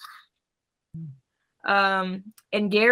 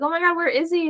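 quoting Kermit; 8 semitones higher, faster than usual. Retold or imitated. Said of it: "he's like".

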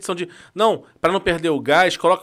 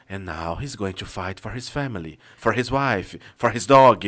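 low, slow epic trailer narrator; movie trailer voice; 9 semitones lower, 4 dB quieter, slower than usual. Retold or imitated. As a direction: sell it like a dramatic trailer. (voz grave de narrador de trailer)

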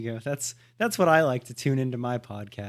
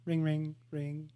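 slow, soft spoken rings; imitating phone ring; 5 dB quieter, slower than usual. Friend letting the call go unanswered, imitated ringing. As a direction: keep the pretend phone ringing slowly. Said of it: "doesn't answer on the first ring".

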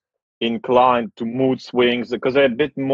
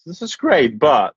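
mock polite British; 4 semitones higher than usual. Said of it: "you just say it very politely".

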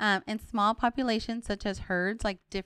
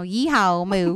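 Texas cow; 8 dB louder, slower than usual. Pretend. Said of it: "what do the Texas cows sound like".

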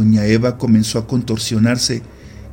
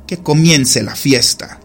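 ominous witch; 4 semitones higher than usual. Acted. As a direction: proclaim it slowly like a witch. Witch opens the ritual. (bruja ominosa, lenta y solemne)

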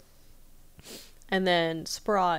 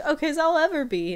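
put-on much higher and louder old-man voice; squeaky McGucket; 10 semitones higher, 6 dB louder than usual. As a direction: squeak it out like a battered old coot. Voicing McGucket after being shot.

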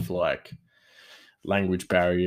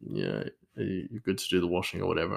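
wife; 3 semitones lower, 7 dB quieter, faster than usual. Retold or imitated. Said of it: "my wife would say".

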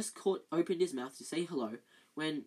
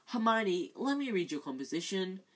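pleading, higher and louder on the name; desperate; 4 semitones higher, 4 dB louder than usual. Acted. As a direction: beg for the homework. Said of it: "said Ron desperately".

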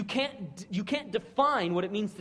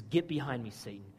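quiet rebuke; 7 semitones lower, 5 dB quieter than usual. Retold or imitated. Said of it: "He says".

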